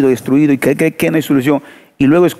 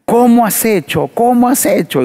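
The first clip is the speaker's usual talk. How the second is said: imitated crying plea; 7 semitones higher than usual. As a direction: plead like the weeping drunk, mildly. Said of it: "Y vino llorando". (el hombre alcohólico suplica al hermano, llanto imitado suave)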